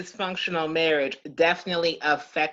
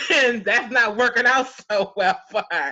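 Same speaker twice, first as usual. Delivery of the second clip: laughing; 3 semitones higher, 6 dB louder than usual. Real, not acted. Laughing about drug lord.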